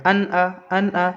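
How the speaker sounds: "अन आ" with a crisp n and no nasal hold; clear izhar n. Shown as a demonstration. Teacher shows reading before hamza, clear izhar n. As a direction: sound the n fully in "अन", then "आ". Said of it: "तो ऐसे पढ़ते हैं".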